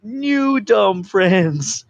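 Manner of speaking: lumbering, simple-minded character impression; King Shark. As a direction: draw out every word in a put-on creature voice. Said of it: "It totally worked with his voice".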